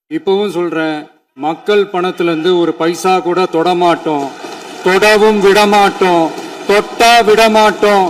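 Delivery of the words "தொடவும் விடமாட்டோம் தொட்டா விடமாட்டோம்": louder with each line, hammering the promise home; loud, forceful. Real, not acted. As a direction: declare it loudly to the house. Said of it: "நான் ஏன் கொஞ்சம் சவுண்டா பேசுறேன்". (உரத்த குரலில் அழுத்தமாக)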